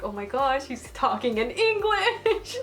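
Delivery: squealed high, stretched-out thrill; fangirl excitement. Retold or imitated. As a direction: gush it, climbing high into a giggle. Retells fangirl thrill at hearing him.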